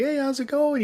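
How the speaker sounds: high, friendly Canadian neighbor voice; Canadian guy impression. Neighbor greeting them at the fence, high cheery Canadian accent. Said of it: "good, good old Canadian guy".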